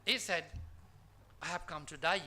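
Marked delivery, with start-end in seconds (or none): 1.4-2.2 "today" said as "to die"; Australian-style "die" for "today". Retold or imitated. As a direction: say "die" with a wide eye vowel where "today" is meant. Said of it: "it sounded like".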